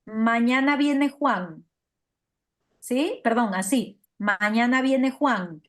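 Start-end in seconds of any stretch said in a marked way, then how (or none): 0.0-1.6 slow, even statement falling on "Juan"; falling statement tune. Shown as a demonstration. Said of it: "si es una afirmación, puedo decir". 4.2-5.6 slow statement, "Juan" falling to a close; falling, declarative "Mañana viene Juan"; descending intonation. Shown as a demonstration. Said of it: "descendente que se llama".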